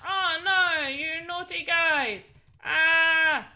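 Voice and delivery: drawn-out playful dismay; mock alarm. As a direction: cry out in pretend alarm. Playing out meeting game enemies.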